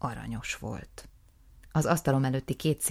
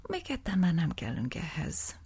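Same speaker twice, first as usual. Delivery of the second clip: whispered, confiding; whispered aside; 4 semitones higher than usual. Acted. Narrator whispering to the goat amid the shouting.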